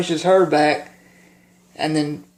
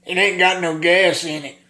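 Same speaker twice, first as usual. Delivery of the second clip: Carl. Acted. Answering a guy about a lawnmower, lightly put-on character voice. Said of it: "And he's like".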